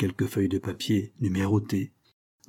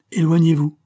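loud, higher command; stern order; 7 semitones higher, 8 dB louder than usual. A narrator's reading. Father repelling his son's embrace, commanding. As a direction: order him away forcefully. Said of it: "ordonna-t-il".

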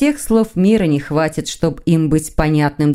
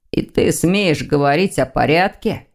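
mocking drawl. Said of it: "издевательски потянул Лефевр".

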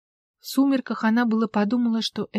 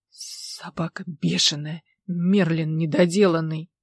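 stammering; 4 semitones lower, slower than usual. Acted. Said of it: "заикаясь".

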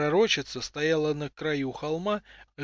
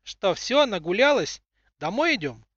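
teasing, higher and louder; ironic; 5 semitones higher, 5 dB louder than usual. Acted. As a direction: tease her with a grin. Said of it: "не без доли иронии в голосе".

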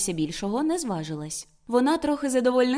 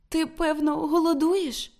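higher, concerned question; tender sympathy; 7 semitones higher, slower than usual. A narrator's reading. Woman worried that Martin is hungry, tender and sympathetic. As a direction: ask with fond pity. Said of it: "ніжно і співчутливо".

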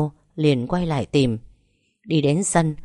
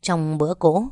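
plain reading voice

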